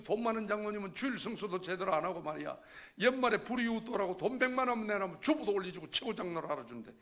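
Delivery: high, loud grumbling rant; argumentative complaint. Retold or imitated. Elder complains to God about cleaning toilets, arguing indignantly. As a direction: take it up indignantly with God, building to an outburst. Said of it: "정말 따지듯이 하나님한테 불평하고 있었어요".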